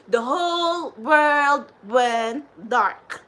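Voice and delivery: slow, loud, drawn-out pronouncement; dramatic emphasis. Real, not acted. Warning her followers that the world went dark, slow and loud. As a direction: let it land like a prophecy.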